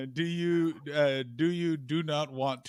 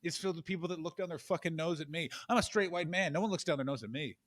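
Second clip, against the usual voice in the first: angry rant. Acted. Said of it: "How about this?".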